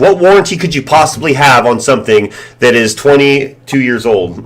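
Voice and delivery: indignant retort. Retold or imitated. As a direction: act out arguing with the scammer. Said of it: "I'm like".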